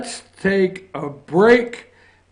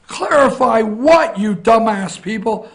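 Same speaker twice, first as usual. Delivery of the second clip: indignant retort; 3 semitones higher, 4 dB louder than usual. Acted. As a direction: fire it back at the reporters in disbelief. Retorting to reporter's question.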